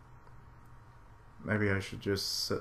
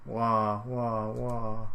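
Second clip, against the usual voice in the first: mock sobbing wahs; much slower than usual.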